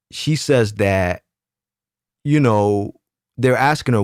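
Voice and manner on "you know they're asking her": usual speaking voice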